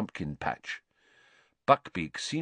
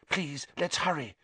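whispered; 7 semitones higher, 5 dB quieter than usual. A narrator's reading. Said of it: "Hermione whispered".

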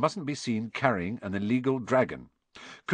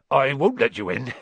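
higher, louder, out-of-breath gruff figure; puffing; 4 semitones higher, 5 dB louder than usual. A narrator's reading. Hagrid at the window, busy with a tricky dragon, puffing. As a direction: puff it out while struggling with something. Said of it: "he puffed".

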